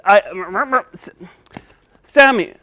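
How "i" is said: mouth full. Pretend. Puppet trying to explain with his mouth full. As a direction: pretend mumbling through a full mouth. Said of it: "when your mouth is full".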